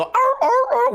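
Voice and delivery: high-pitched hurt-dog yelp; short, high imitation dog cries; imitated dog yelps. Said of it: "dogs make noises. They go".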